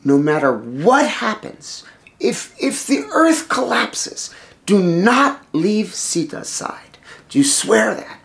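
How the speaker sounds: slow, emphatic charge rising in pitch; solemn command. Acted. Husband orders brother to guard his wife, slow and grave. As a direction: make him swear it, weighing each word.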